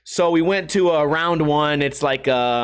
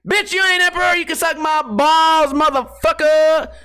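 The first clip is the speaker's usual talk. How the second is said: mock tough shout; 9 semitones higher, 4 dB louder than usual. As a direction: bellow it like a hammed-up gladiator. Mock Gladiator rewrite insult.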